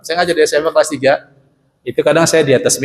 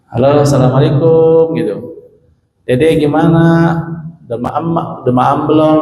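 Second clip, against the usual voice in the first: put-on talking to a small child. Shown as a demonstration. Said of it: "Ngomong sama anak kecil gimana?".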